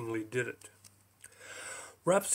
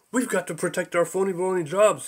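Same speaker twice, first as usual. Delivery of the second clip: shouted; 4 semitones higher, 4 dB louder than usual. Acted. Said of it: "he shouted".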